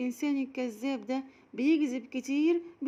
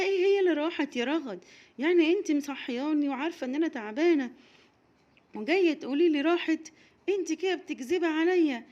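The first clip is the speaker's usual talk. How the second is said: louder, quick scolding; scolding mother; 4 semitones higher, 5 dB louder than usual. Acted. Mama scolding Raghad for waking her, louder scolding. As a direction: tell her off for lying.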